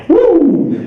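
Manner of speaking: high "woo" siren sound; imitated police siren. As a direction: whoop like a cop's siren.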